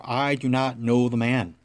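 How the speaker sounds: slow, deliberate denial under oath; slow sworn denial. Acted. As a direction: drag out each word as if swearing an oath. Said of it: "calling down curses on himself and swore".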